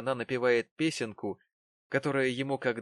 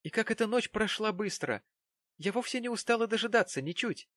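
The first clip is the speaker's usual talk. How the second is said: higher, brisk cheerful voice; forced cheer; 10 semitones higher than usual. A narrator's reading. Wife pretending cheer to her husband. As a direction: keep it bright for his sake.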